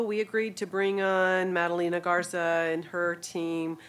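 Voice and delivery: rough, gravelly voice from allergies. Real, not acted. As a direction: speak through a gravelly throat. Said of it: "bear with my gravelly voice today".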